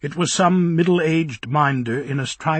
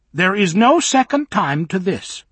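high, loud scandalised nanny, slowed at the start; shocked old minder; 8 semitones higher, 7 dB louder than usual. Acted. Old minder ordering Bock out of the garden, high and loud. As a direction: huff and threaten the intruder.

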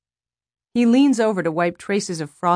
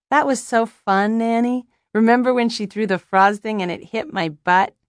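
put-on higher-pitched small child voice; excited little boy; 5 semitones higher, 4 dB louder than usual. A narrator's reading. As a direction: play a gleeful little boy recalling mischief.

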